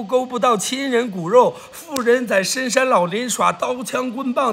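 rhythmic streamer patter quoting sayings; rhymed recital. Acted. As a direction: declaim the verses with a lilt.

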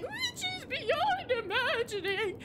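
slow, high dramatic announcer; epic trailer voice. Retold or imitated. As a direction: intone it like a movie trailer. Quoting the game's tagline.

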